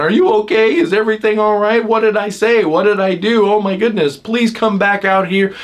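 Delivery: mock panicky family pleading; worried rescuers. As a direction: pester them with worried questions. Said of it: "all these people come in".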